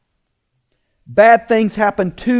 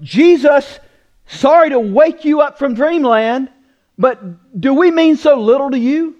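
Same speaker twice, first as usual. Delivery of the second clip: higher, louder mock-polite rebuke; hammed-up indignant disciples; sarcastic accusation; 5 semitones higher, 4 dB louder than usual. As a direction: needle him the way frightened disciples would. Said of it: "read between the lines".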